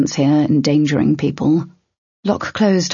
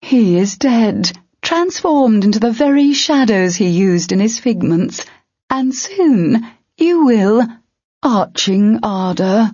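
menacing ogre; 5 semitones higher than usual. Acted. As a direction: draw it out as an ogre's threat. Ogre character voice.

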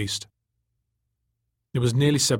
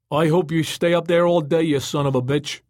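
raised voice, high at the start; angry retort; 5 semitones higher, 4 dB louder than usual. A narrator's reading. Glaring Joey curses Tom hovering above, angry raised voice. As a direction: curse up at him, disgusted.

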